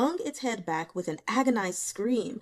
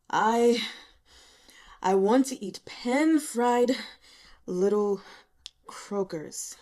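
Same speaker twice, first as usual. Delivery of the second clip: drowsy, slow cat's mumble, louder at first then fading; sleep-talking; 5 dB louder, slower than usual. A narrator's reading. Da Qing nagging about food while dozing off, sleepy mumble. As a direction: murmur it half asleep. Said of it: "as if he were talking in his sleep".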